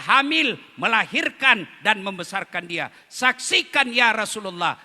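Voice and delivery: high, loud desperate cry to stop; mother screaming. Acted. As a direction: scream for them to halt the fire. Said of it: "ibunya berteriak". (ibu berteriak putus asa, tinggi dan keras)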